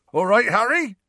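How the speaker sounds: big beaming greeting, a hint of Hagrid; light Hagrid voice, grinning wide. A narrator's reading. Hagrid beaming as Harry approaches the fence, gently voiced.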